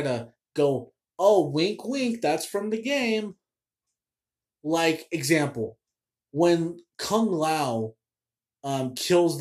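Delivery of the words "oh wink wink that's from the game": mocking wink. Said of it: "the shameless freaking ways they try".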